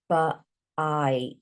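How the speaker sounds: "but-ite" split, long i in "ite"; long i sound. Shown as a demonstration. Teacher modelling long i for pupils. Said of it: "It changes to the long sound".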